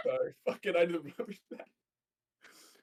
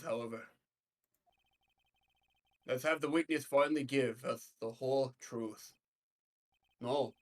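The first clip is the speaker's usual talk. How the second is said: judge voice; 8 semitones lower, 6 dB quieter than usual. Acted.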